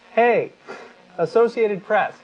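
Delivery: a teasing shout at the reporters; mock calling out. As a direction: hail them like across a room. Calling out the news agency.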